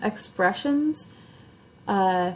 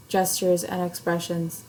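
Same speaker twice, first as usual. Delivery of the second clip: "gestures, and expressions" on one level note; robot-like, unvarying "gestures, and expressions"; boring monotone. Shown as a demonstration. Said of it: "very boring if you say it like that".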